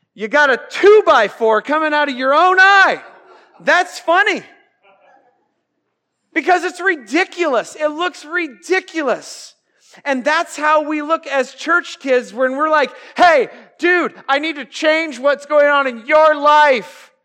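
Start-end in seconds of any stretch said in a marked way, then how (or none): 0.1-4.4 louder, higher punchline; loud comic punchline; raised punchline. Retold or imitated. 13.2-17.1 loud, higher, pushy do-gooder; shouted mock correction; mock preachy church kid.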